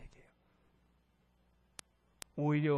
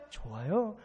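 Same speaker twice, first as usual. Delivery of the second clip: calm acceptance; 2 semitones lower, slower than usual. Acted. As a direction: answer the challenge easily and contentedly. Acted calm answer to shouted question.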